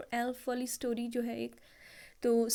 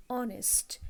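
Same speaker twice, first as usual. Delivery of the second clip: ऑनेस्ट breathed as a whisper; whispered word; slower than usual. Shown as a demonstration. Teacher to students, whispering the silent-H word. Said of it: "H is silent".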